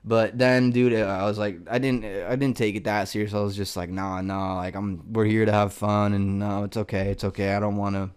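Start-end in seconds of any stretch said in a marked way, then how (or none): 3.9-8.1 playing it down. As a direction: wave it away as if you couldn't do it. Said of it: "basically played it down as if I didn't".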